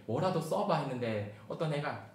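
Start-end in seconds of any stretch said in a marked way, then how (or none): 0.1-0.8 kindly teacher. Acted. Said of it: "이렇게 친절하게".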